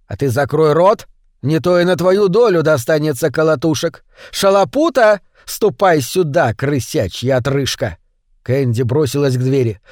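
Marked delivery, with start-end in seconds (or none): 0.1-8.0 громкий грубый окрик хозяина; осади девчонку и позови слугу; злобный окрик. Acted. Хозяин грозит Кэнди. (хозяин грубо обрывает Кэнди)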